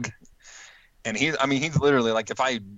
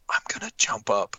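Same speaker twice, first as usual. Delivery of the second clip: silent mouthing, no voice; just shape the words, breathless; mouthed words. Retold or imitated. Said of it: "he just mouths".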